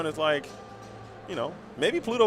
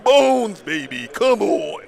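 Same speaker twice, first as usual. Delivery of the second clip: put-on Pluto griping in a New York accent, some lines louder; 3 dB louder than usual. Pluto ranting to Mickey about kibbles in a New York accent. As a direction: complain in New York accent like a fed-up deli guy. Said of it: "that was a Jersey or New York accent for sure".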